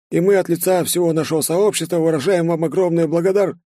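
high, ceremonious voice of a plump Asian host; a host bowing to his guests in speech, pitched high; polite host voice. Acted. Host welcoming the evening's guests, high and ceremonious.

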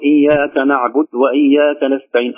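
نعبد said with its final u dropped; dal damma swallowed. Shown as a demonstration. Teacher imitating some reciters, نعبد without the closing u. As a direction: clip نعبد to end on a bare d. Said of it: "لا يبين ضمة الدال".

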